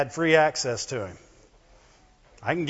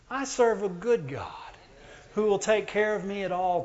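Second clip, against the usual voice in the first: shouted declaration; 3 semitones higher, 5 dB quieter than usual. Real, not acted. Declaring faith.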